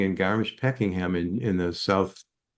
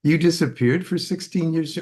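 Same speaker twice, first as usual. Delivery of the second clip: a sudden leap to a very high "What?", then still raised; shocked disbelief; 9 semitones higher than usual. Retold or imitated. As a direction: retell the jolt of disbelief. Retold shock at her revelation.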